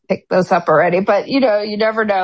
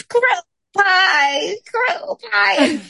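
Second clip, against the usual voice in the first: high, hammed-up British reader; British storyteller voice; 12 semitones higher, much slower than usual. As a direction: squeal it like a theatrical narrator. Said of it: "it was clearly her changing her voice".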